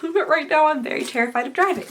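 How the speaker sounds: sick, worn-out grandma voice; scratchy voice from a cold; hoarse voice. Real, not acted. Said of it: "my voice is slowly becoming that grandma voice".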